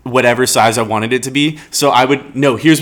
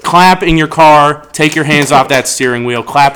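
calling out; 4 dB louder than usual. Acted. Asks listeners to clap.

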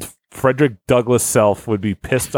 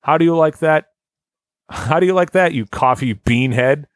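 yelling. Retold or imitated. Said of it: "I stop and yell out".

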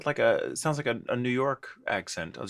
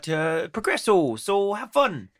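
put-on higher-pitched cruise captain with a Fargo accent; 6 semitones higher than usual. Co-host imitates their cruise captain announcing a change of route, Fargo accent. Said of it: "he had that sort of accent".

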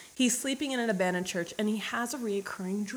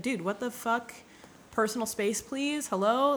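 mildly annoyed mock complaint, pitched up; irritated; 4 semitones higher than usual. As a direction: act out a touch of exasperation, lifting the plea. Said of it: "he's getting mad, irritated about this old man".

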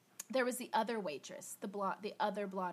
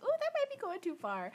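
much higher, wincing quip; mock wary aside; 12 semitones higher than usual. Reacting to Amelie's fake letter, higher mock wince. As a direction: wince it out as if she's crossed a line. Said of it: "which I was like".

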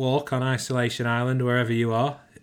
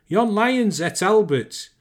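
high, loud, drawn-out Lancashire holler; 9 semitones higher, 7 dB louder than usual. A narrator's reading. Mother who saw the lion swallow her son, hollering. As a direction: holler it out slowly, pitched right up. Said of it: "she hollered".

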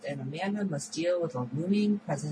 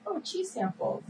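much higher, delighted little exclamation; excited; 13 semitones higher than usual. Retold or imitated. Retelling the character's shopping trip, excited. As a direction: act out her excited discovery, pitched way up. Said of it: "she's excited".

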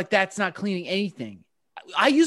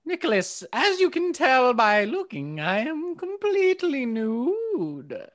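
witch voice; 2 semitones higher, slower than usual. Acted. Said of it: "How long do I have to do this voice?".

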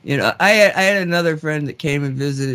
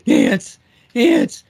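higher, louder calls of the name; urgent calling; 9 semitones higher, 3 dB louder than usual. Retold or imitated. Psychic friend calling Nancy during ceremony, urgent higher calls. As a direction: grab her attention fast.

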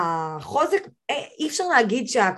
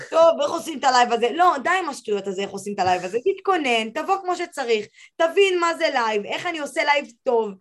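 higher-pitched, lightly acted self-coaching; mock pep talk; 6 semitones higher than usual. Podcast guest acts out urging a nervous beginner to go live, pep talk. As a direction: imitate someone briskly talking themselves into it.

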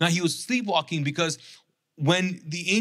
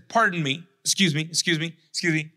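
sarcastic; faster than usual. Retold or imitated. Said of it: "And it's sarcastic".

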